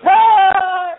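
high-pitched loud laughing shriek; a goon's squealing cackle; squeaky laugh. Retold or imitated. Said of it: "You know, that really horrible laugh".

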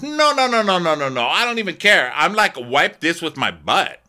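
very high, dismissive Alexia imitation; mock Alexia. Friend imitates Alexia waving off the papers, high-pitched. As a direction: shrug it off in a high squeal.

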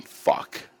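hushed, low mock realisation; quiet acted resignation; resigned dread. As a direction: mutter it under your breath, doomed. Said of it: "Basically saying".

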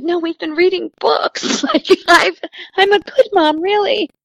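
mock-flustered self-defence; defensive protest. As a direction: protest that you really are a good parent. Mom defends herself to doctor.

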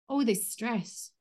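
very slow, drawn out; slow tapping phrase. Shown as a demonstration. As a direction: stretch each word slowly. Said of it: "and we just go".

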